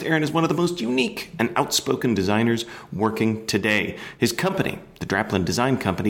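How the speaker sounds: inflected, upbeat radio host introduction. Real, not acted. Host introduces Aaron Draplin to listeners, radio voice. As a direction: sell each item with announcer-style inflection. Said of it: "uh, radio voice".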